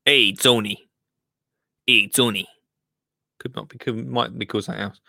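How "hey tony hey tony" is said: a light hint of a mafia tough guy greeting Tony; mafia impression. Host greeting Tony, lightly voiced mafia guy. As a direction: call out like a wiseguy in a back room, only lightly. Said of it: "This is my mafia impression".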